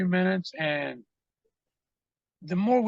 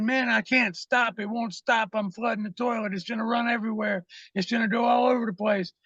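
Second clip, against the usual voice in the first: mock-panicked, higher-pitched pleading; retold panic; 5 semitones higher than usual. Tripping friend locked in bathroom to his buddy, mock panic. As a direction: imitate a friend mildly freaking out.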